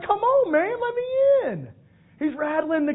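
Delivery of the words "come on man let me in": high, loud frustrated plea at the gate; impatient pleading. Acted. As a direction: rattle the gate and beg to get in. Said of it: "Peter's like".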